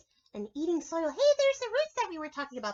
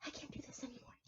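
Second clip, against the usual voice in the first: soft, near-silent giving up; defeated robin; 4 semitones lower, 18 dB quieter, faster than usual. Acted. Robin puppet giving up on the worm, softly defeated. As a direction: sigh it out, beaten.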